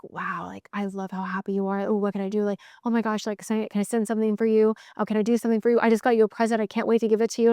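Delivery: lightly voiced eager boyfriend. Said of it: "my man is like".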